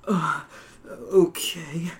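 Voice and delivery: breathy whispered reply. Acted. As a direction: whisper it back softly. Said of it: "you whisper back".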